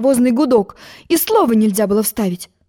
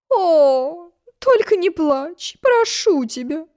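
pleading; 8 semitones higher, much slower than usual. A narrator's reading. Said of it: "умоляюще простонала королева".

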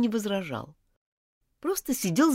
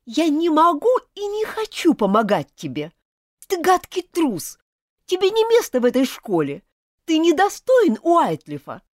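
high, loud outraged accusation; angry and contemptuous; 8 semitones higher, 5 dB louder than usual. Acted. Elizabeth accuses Martin of theft, high and furious. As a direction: hurl it at him, betrayed and furious. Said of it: "презрительный взгляд".

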